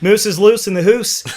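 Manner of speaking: laughing bad Canadian accent. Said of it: "I'm terrible with Canadian accent".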